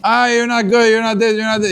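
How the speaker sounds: acted nagging reproach; lambasting. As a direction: rattle off complaints like an imitated telling-off. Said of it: "you're lambasted".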